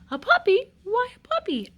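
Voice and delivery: high, surprised asking; puzzled question. Acted. King and queen questioning the wise man, surprised. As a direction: pitch it up in disbelief. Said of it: "asked the king and queen".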